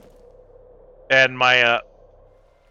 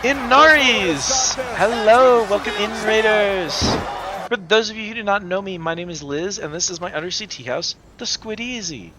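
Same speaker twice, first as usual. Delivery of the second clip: cute anime streamer; 4 semitones higher than usual. Acted. Greeting incoming raid, tea house host.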